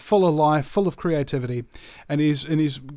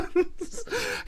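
mock sob; 7 dB quieter than usual. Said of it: "this little cell crying".

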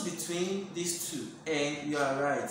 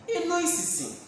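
"Inú ìsìsì" pitched much higher, falling; tones demo; 9 semitones higher, faster than usual. Shown as a demonstration. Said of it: "Well, I'm a foreigner".

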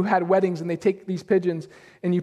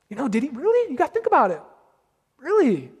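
doubting whisper of the serpent; 4 semitones higher, faster than usual. Retold or imitated. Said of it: "the serpent".

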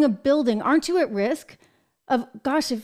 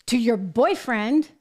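disbelieving, much higher, slow; mock disbelief; 5 semitones higher than usual. Host mocking paying a boyfriend in cash, disbelieving. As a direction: pitch shoots up in mocking disbelief. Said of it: "you're like".

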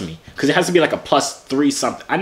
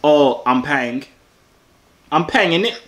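drawn-out, put-on British slang; mock British accent; 3 semitones higher, slower than usual. Man trying to prove to stranger he's British, mock British accent. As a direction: play at being a British local. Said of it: "See, I told you I'm British".

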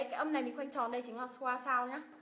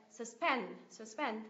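"Suspend" with PEND stressed; short weak "Sus", strong PEND in "Suspend"; second-syllable stress; slower than usual. Shown as a demonstration. Teacher demonstrating "Suspend", stress on second syllable. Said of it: "Nhấn âm tiết thứ hai ạ".

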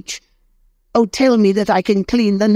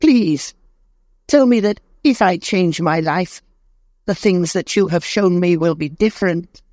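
put-on much higher, desperate begging old man; pleading in despair; 11 semitones higher than usual. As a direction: plead for your life on your knees. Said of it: "trembling; fell on his knees".

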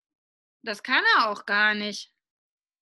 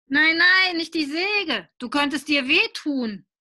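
higher and louder no no; anxious protest; 5 semitones higher, 6 dB louder than usual. Acted. Boy refuses the saw, loud and higher. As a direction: protest loudly and quickly.

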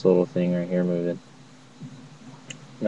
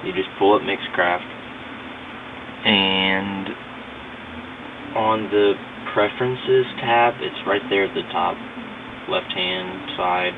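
recorded through a phone mic, scratchy and garbled; speaking through a phone app mic, a little staticky; cheap phone mic. Real, not acted. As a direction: talk into a cheap phone microphone. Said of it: "Kinda scratchy".

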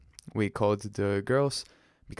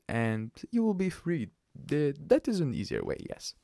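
mock polite. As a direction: play a two-faced official being nice. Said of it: "so she used the other face".

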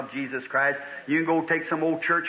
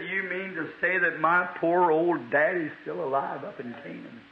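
mildly imitated crying. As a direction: lightly act out crying, sinking at the end. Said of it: "began crying".

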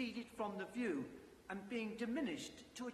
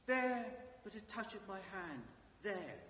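echoing ethereal energy being. Acted. Ghost speaks, spirit voice.

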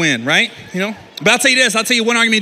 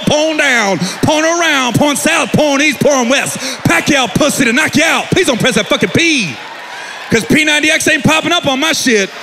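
frantic rant; 3 semitones higher than usual. Pretend. Frantic list of porn.

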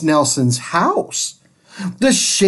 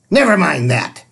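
snapped; faster than usual. Acted. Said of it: "snapped Miss Swamp".

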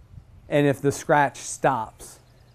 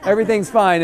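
reassuring bird voice; 6 semitones higher, 5 dB louder, faster than usual. Retold or imitated.

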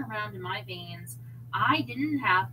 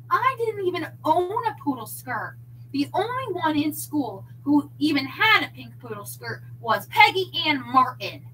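indignant Nancy; 6 semitones higher, 7 dB louder than usual. A narrator's reading. Nancy accusing David.

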